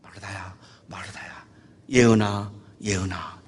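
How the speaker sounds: low, soft calling by name; hushed, tender reproof; gentle admonishing. Retold or imitated. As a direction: coax quietly, with care. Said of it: "타이르는 거예요".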